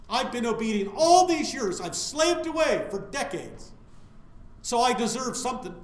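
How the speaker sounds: mock resentful son. Preacher voices the older son's grudge, mock aggrieved. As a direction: play the sulking brother who feels owed.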